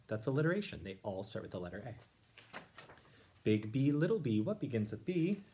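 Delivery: lively read-aloud rhyme; reading to children. Acted. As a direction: read it out bouncy, for the class. Teacher reads Seuss aloud.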